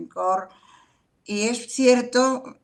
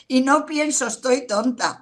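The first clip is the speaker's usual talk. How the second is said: raised, emphatic take on the inner voice; higher, louder mock "Estoy tonta"; louder mock self-talk; 5 semitones higher, 4 dB louder than usual. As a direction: say it up and out, as if scolding yourself. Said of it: "no pienso que estoy tonta".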